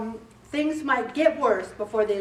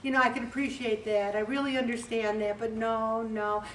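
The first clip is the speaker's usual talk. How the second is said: polite refusal; 5 dB quieter than usual. Shown as a demonstration. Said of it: "you say".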